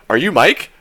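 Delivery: put-on loud, high drunk-guy voice; loud high "Are you Mike?"; drunk fan question. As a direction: shout it like an excited drunk fan. Drunk fan asking at concert.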